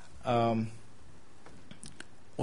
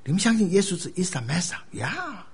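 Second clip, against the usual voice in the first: soft lilting questions, pitched up; slow, gentle approach; 5 semitones higher, 4 dB quieter than usual. Acted. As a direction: ease into it with slow, non-confrontational questions. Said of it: "你就慢慢跟他讲说".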